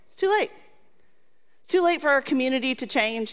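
a lightly voiced accuser sneering it; the voice of culture jeering from outside; taunting inner voice. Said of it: "we hear these voices from culture".

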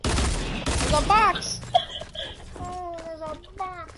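high slow mock discovery; mock surprise. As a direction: act surprised at the box. Mock discovering hidden friend.

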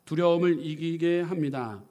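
loud, deliberate declaration of faith; loud preacher's declaration; proclaiming aloud. Shown as a demonstration. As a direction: proclaim it boldly to the room. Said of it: "우리 선포합시다".

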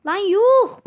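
loud, high amazed yelp; shocked shout. Real, not acted. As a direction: blurt it out in disbelief. Shocked at ore count. (şaşkın bir bağırış)

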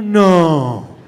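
loud disbelieving groan; loud mock outrage; retold disbelief. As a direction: react loudly in disbelief at a stream.

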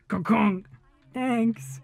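light mock conk conk thanks; hint of Mercy voice; imitating Mercy. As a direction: mimic the bonk and the thanks. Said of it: "banged her head while saying thanks".

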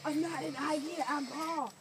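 put-on drunk caveman voice. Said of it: "You're speaking like a drunk caveman".

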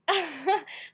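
loud, high burst of laughing; re-enacted laughter. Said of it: "we started laughing".

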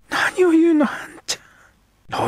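put-on high, loud girl's protest; a girl objecting sharply to her friend.

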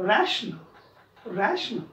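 रॅशनल drawn out very slowly, RA lifted; first syllable lifted. Shown as a demonstration. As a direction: stretch रॅशनल and lift RA. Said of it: "पहिल्याला उचला त्याला".

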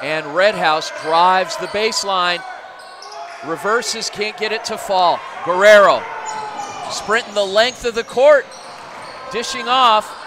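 energetic live basketball call; play-by-play. Acted. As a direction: call the action as it happens.

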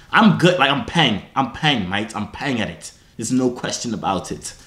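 low, shaky-authentic mock British; attempted British. Shown as a demonstration. Trying out British slang, put-on British accent. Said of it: "how to speak the British".

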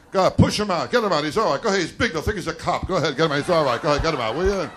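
hammed-up pals hurrying him out of the car; friends shoving him out. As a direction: friends pushing a drunk out, urgent and loud. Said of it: "they always push me out of the car".

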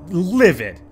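livid. Real, not acted. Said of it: "I am livid".

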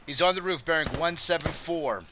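urgent callout. Real, not acted. Enemy spotted, calling out.

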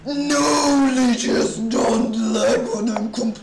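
loud, drawn-out cracking protest. Real, not acted. Streamer protesting at a lagging chess site, voice cracking. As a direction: cry out with the voice giving way. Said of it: "maybe just a small voice crack".

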